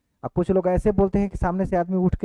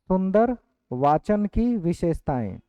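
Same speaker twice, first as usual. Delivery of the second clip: slow, with सुंदर stressed, for students to write; slow dictation; slower than usual. Shown as a demonstration. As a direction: dictate it slowly word by word. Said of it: "लिखेंगे". (धीरे-धीरे लिखवाते हुए बोलना)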